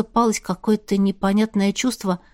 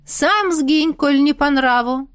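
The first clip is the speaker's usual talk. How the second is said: higher mocking throwback on сам; mocking retort; 4 semitones higher, slower than usual. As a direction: throw the word back with scorn. Witch mocks back.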